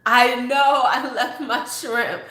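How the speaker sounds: loud laughing mock lament; laughing imitation. Imagining the man missing his shrimp, laughing loudly. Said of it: "He gonna be like".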